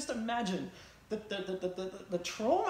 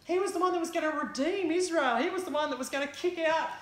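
higher, earnest disciple pouring out lost hope; grieving disciple; 5 semitones higher than usual. Acted. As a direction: recount the crucifixion with anguished disbelief.

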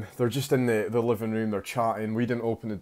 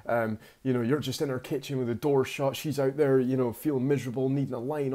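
mild, higher-pitched telling-off; mock indignation; 4 semitones higher than usual. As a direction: imitate an indignant complaint without raising the volume. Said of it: "he's pissed off".

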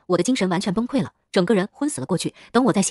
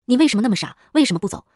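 louder, higher, heart-torn cry of why; shouting in anguish; 3 semitones higher, 3 dB louder than usual. Acted. Woman screams at the boy for not running away, loud and anguished. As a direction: yell it at him, torn apart with worry. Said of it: "贵州女人对我大吼".

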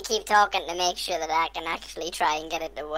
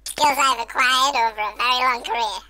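changer voice; 4 semitones higher than usual. Acted. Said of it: "With that voice".

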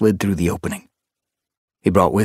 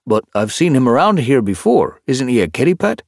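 higher, louder puzzled question; puzzled tomcat; 6 semitones higher, 5 dB louder than usual. Acted. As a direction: ask it honestly confused. Hutch puzzled.

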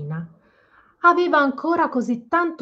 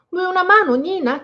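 kind offer; 8 semitones higher, 5 dB louder than usual. Acted. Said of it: "chiese un elfo gentile".

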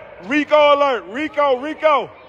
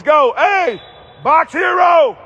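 loud cheer across the court; loud shout from the bleachers; courtside shout; 3 semitones higher, 5 dB louder, slower than usual. Real, not acted. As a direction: call it out so he hears.

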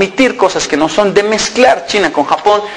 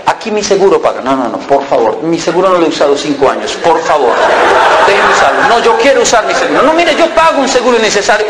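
polite mock argument. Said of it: "comenzaron a pelear".

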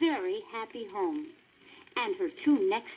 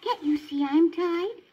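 put-on higher, urgent young dog voice; Lady crying out; 9 semitones higher, 4 dB louder than usual. A narrator's reading. Lady cries out to the Tramp, high and urgent. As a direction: call it out pitched up as Lady. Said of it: "cried Lady".

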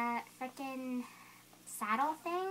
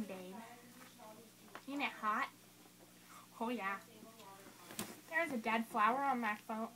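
helium voice; 3 semitones lower than usual. Real, not acted. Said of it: "suck the helium out of this balloon".

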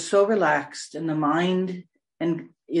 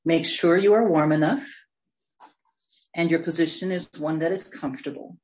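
unhurried meditation guidance with long pauses; guided meditation. Real, not acted. Meditation leader settling listeners into a comfortable position, guided meditation. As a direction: ease them gently into stillness.

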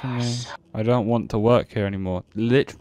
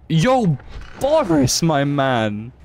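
excited greeting; 3 semitones higher, much slower than usual. Real, not acted. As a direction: call out to Boris, hyped. Excited greeting of game character.

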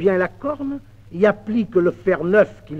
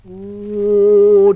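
boastful oh; 2 semitones higher, 8 dB louder than usual. Acted. Master's boastful exclamation.

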